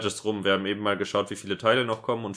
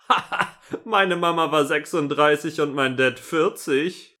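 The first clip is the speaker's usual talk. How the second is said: mocking comment voice; 7 semitones higher, 6 dB louder than usual. Reading a comment in voice.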